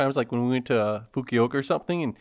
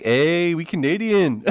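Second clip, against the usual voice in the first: mock broken English; 5 semitones higher, 5 dB louder, slower than usual. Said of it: "We're like".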